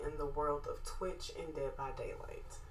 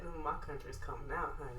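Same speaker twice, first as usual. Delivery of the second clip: southern drawl; 7 dB quieter, faster than usual. Real, not acted. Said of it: "that southern drawl came out".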